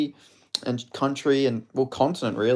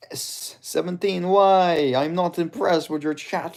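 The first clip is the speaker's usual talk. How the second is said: higher, put-on impersonation voice; GSP voice; 6 semitones higher, slower than usual. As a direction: do a high-pitched impersonation. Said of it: "with G S P voice".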